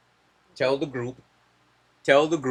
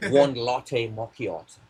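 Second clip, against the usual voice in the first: slow mock posh British accent; slower than usual. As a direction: order coffee like a posh Brit, drawn out. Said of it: "Give us your Starbucks order in the best posh British, British accent".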